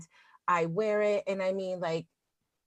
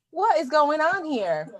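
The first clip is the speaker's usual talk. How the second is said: puzzled stare; 6 semitones higher, 4 dB louder, slower than usual. Retold or imitated. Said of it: "the car next to me is just kinda like".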